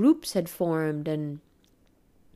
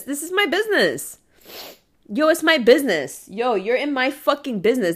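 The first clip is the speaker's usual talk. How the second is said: raised, defiant challenge; heated street challenge, pitched up; mock confrontation; 3 semitones higher, 4 dB louder than usual. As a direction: stand up to the bully, louder. Confronting imagined bully.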